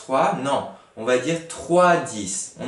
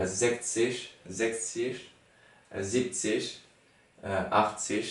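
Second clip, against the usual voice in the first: German accent; 2 semitones lower, 6 dB quieter than usual. Shown as a demonstration. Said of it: "de prononcer avec l'accent allemand".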